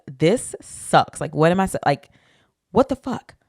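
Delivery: mock-panicked rambling, rising in places; retold panic. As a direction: replay your bewildered panic, stumbling over restarts. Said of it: "panicking 'cause I'm like".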